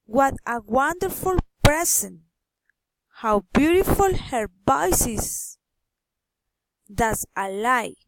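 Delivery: exclamations dropping on PRESENT, IS and LIE; falling exclamation intonation. Shown as a demonstration. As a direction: let each exclamation fall away on PRESENT, IS, LIE. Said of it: "falling intonation".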